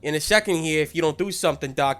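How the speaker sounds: pushy complaining chimp character; acted grumbling tough-guy chimp; chimp character Chucky. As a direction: lodge a rough, urgent complaint with the doc. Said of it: "Chucky ... i-, is like".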